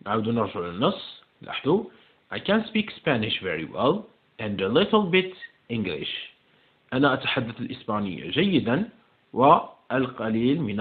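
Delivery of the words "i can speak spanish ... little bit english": slow, measured English reading; slow model reading. Shown as a demonstration. Teacher reading the text to check an answer, slow model reading. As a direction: read it slowly for learners.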